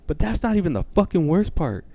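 retold high-pitched indignation; flipped-out mother. Mom telling dad the worst part, imitated high-pitched indignation. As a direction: build the outrage like a scandalized mother. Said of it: "flipped the fuck out".

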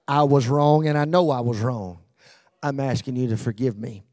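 loud, firm, owning it fully; earnest confession. Shown as a demonstration. Preacher showing the congregation a true apology, loud and firm. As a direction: say it like you mean every word. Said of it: "no, no, no, no".

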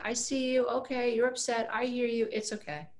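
put-on calm an upset toddler; mother soothing a crying child; soothing parent. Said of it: "through the validation".

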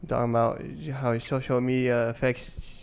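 a hint of a cutesy baby voice. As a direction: talk like a little baby. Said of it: "Stop talking like a fucking baby".

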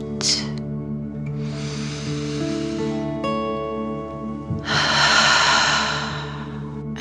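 slow breathy exhale; long dragon breath out. Shown as a demonstration. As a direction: breathe out like fire. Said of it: "pretending you are breathing fire".

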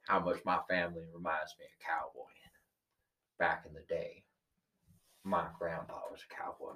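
put-on cowboy accent. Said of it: "I don't know where the rest of it accent came from".

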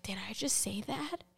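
whispered question to oneself; very soft, retold stunned aside; hushed disbelief. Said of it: "I was like".

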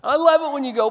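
high, soft doting voice; hammed-up sweet-talk to a cute sheep; mock adoring God to sheep. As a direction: coo it like doting on a fluffy pet. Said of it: "like saying".

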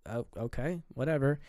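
halting, half-hearted giving in; retold hesitant agreement. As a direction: imitate a reluctant, trailing okay.

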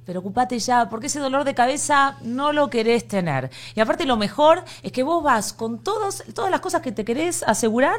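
casual sponsor plug; ad read. Acted. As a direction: pitch the insurance to listeners. Reads insurance sponsor ad. (anuncio de seguros leído)

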